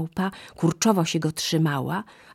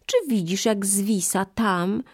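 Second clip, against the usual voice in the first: sly monkey; 5 semitones higher than usual. Acted. Monkey fooling the crocodile, hushed and sly. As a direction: point him back with a hushed sly voice.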